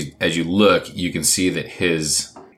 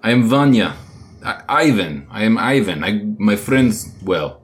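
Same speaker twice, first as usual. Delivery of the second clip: put-on lightly accented Ivan; 3 semitones higher, 4 dB louder than usual.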